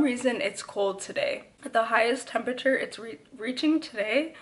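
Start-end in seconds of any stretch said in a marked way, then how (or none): 1.7-4.3 talking with a retainer in; slight lisp from a retainer. Real, not acted. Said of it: "I can't even talk because of my retainer".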